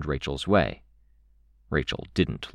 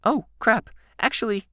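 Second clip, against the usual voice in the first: very high, urgent exclamation; a light, high-pitched hiss. A narrator's reading. Kenzie remembering by sleeping puppies, hissed. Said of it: "She stopped hissing the words".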